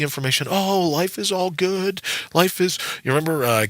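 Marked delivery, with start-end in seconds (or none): 0.5-2.8 slow, higher, lightly mimicked cheerful line; a hint of the Animal House guy, drawn out; understated movie quote; Kevin Bacon's line. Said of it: "Kevin Bacon in Animal House".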